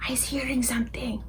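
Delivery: unvoiced giant whisper. A narrator's reading. The giant hushing Sophie in the garden, whispered. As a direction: hush it, listening hard. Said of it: "the B F G whispered back".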